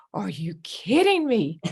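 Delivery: breathy incredulous whisper. Retold or imitated. Telling off the professor, in a whisper. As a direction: hiss it in disbelief. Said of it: "then I lit into her".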